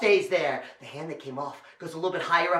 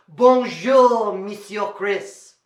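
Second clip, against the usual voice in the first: French greeting; 5 dB louder, much slower than usual. Shown as a demonstration. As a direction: lead the children in a French hello. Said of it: "in French".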